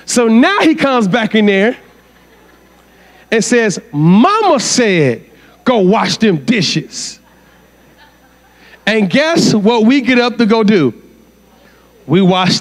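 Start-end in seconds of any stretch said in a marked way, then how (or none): 3.9-7.2 empowered. Retold or imitated. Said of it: "he's empowered".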